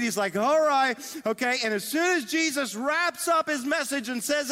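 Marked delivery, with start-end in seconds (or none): 0.3-1.6 louder, eager burst; excited. Acted. Peter as the sermon seems about to end, excited. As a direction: perk up with sudden relief. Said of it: "Peter's getting excited".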